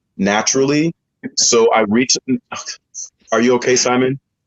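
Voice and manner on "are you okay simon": plain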